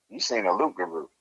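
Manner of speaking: understated, casual delivery; matter-of-fact. Retold or imitated. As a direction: say it like it's everyday news. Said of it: "in such a matter-of-factly tone".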